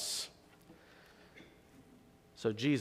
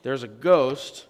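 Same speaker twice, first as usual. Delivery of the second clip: mock scream; 6 dB louder, slower than usual. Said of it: "all of his disciples start screaming".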